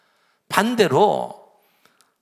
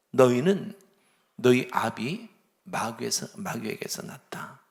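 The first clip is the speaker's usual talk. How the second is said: stern rebuke; 6 semitones lower than usual. Retold or imitated. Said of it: "그들을 향해서 얘기하는 거죠".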